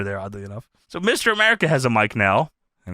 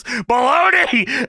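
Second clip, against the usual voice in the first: drawn-out, higher-pitched mock yell; retold yell; 7 semitones higher, much slower than usual. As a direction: holler it slowly as a wrestler's heckle. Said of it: "Piper yells".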